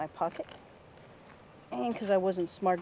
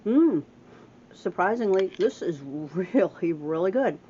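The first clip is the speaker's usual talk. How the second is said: surprised delight; 7 dB louder, slower than usual. Real, not acted. Tasting stew, hates peas.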